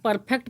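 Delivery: परफेक्ट with the R sounded, "par-phekt"; wrong pronunciation. Retold or imitated. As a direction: pronounce the R fully in परफेक्ट. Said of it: "पूरी तरह से गलत पढ़ते हैं". (परफेक्ट में र बोलकर गलत उच्चारण)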